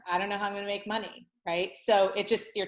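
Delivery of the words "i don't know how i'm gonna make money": softer repeat. Shown as a demonstration. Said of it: "So it's like".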